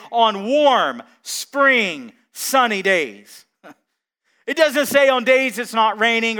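rousing sermon delivery; preaching at full force. Acted. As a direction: preach it out to the congregation, building. Pastor preaching to congregation.

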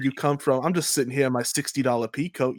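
fast, lightly hammed New York ramble; mock New York voice. Mocking Peter talking to Harry, a light New York put-on. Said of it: "what is this voice you're doing".

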